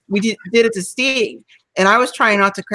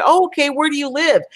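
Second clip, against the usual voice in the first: sweet naive mom; 7 semitones higher than usual. Retold or imitated. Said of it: "my mom actually said".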